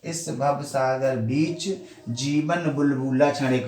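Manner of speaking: slow, even recital of the half-line; verse reading. Shown as a demonstration. Teacher testing whether the verse flows, slow recital. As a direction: read it out to test the flow. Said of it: "अब इधर से पढ़ेंगे".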